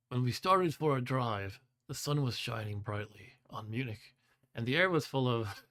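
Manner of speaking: a hint of a drowsy surfer impression, unhurried; Keanu voice. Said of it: "I'm doing my Keanu voice here".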